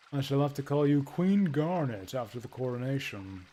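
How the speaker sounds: put-on a lightly altered voice for the chuckling old doctor, slowing at the end; jolly court doctor. Doctor announcing the coronation, lightly voiced old man. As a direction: play the kindly doctor, a touch theatrical.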